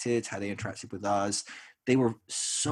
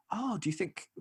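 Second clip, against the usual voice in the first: imitating caring wife; 9 semitones higher, 6 dB quieter than usual. Wife gently probing, retold.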